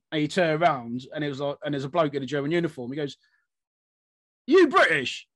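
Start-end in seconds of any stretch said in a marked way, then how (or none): 4.5-5.3 high, loud mock-incredulous call; astonished question. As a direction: call it out as a startled soldier. Acts out startled soldier's question.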